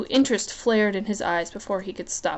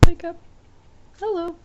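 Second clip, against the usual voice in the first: calling out; 9 semitones higher than usual. Real, not acted. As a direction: call out to wake it up. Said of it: "calling the camera".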